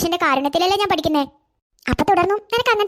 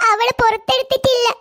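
slow, higher voice between sobs; tearful; 5 semitones higher than usual. Acted. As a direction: report it haltingly while crying. Crying child reports the accident. (വിതുമ്പിക്കൊണ്ട്)

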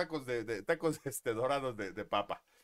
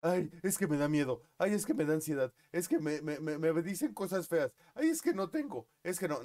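higher, louder whiny voice; mock whining; 4 semitones higher, 3 dB louder than usual. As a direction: whimper like a scared complainer. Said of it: "No puedes estar temblando".

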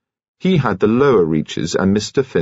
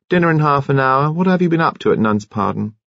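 high, idly voiced wife; idle questioning; 7 semitones higher than usual. A narrator's reading. Wife quizzing her late husband, idle. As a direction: ask it idly in a raised pitch. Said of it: "she said idly".

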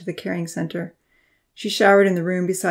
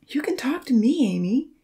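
pleading; 7 semitones higher than usual. A narrator's reading. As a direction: gently beg her to open up. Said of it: "he pleaded".

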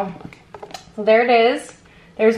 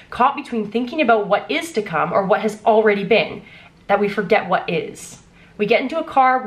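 reading aloud; 3 semitones lower than usual. Acted. Reads excerpt from her book.

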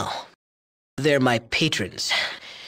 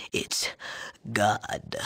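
awed whisper; 5 semitones lower, 8 dB quieter than usual. Acted. Whispered reverent boast of creation.

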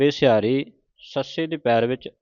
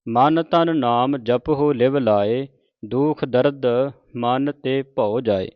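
slow, measured Gurbani reading; measured devotional recitation; scripture recitation; slower than usual. Acted. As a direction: recite each phrase deliberately, drawing out the vowels.

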